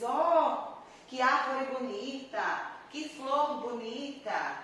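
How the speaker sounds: an admiring "Ó" that rises, then a slow "que flor bonita"; admiring exclamation. Shown as a demonstration. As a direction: marvel at the tree and the flower, slowly. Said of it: "eu exprimo admiração".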